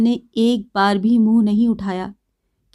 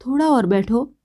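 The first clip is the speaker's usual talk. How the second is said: soft plea. Acted. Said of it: "बिजली मृदु स्वर में बोली".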